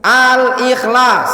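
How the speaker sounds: 1 slow spelled-out word. Shown as a demonstration. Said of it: "Gimana tulisannya?".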